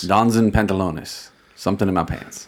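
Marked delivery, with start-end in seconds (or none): 0.0-1.3 mock Spanish accent. Shown as a demonstration. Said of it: "saying it with, like, a Spanish tone".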